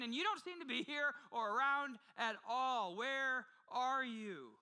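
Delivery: a moderately voiced plea from someone who feels abandoned; anguished prayer. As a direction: lay the hurt bare, slowly. Voicing a believer's anguished prayer.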